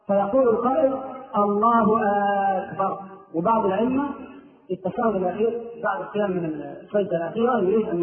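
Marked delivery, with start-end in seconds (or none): 1.4-3.0 drawn-out "آكبر" as if asking; questioning hamza on أكبر. Shown as a demonstration. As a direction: stretch the first vowel of "أكبر" into "aakbar". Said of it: "إدخال همزة الاستفهام على لفظ أكبر". (مد همزة أكبر كالاستفهام)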